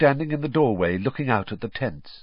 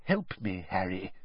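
softer, under his breath; muttered; 3 semitones lower, 7 dB quieter than usual. A narrator's reading. Mister Weasley asking Harry for help, muttered softly. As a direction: murmur so the Muggle won't hear. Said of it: "he muttered".

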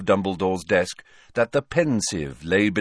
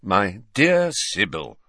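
slow, patient sigh of exasperation; mildly exasperated old headmaster; slightly exasperated; 3 dB louder, slower than usual. Acted. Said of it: "in a slightly exasperated voice".

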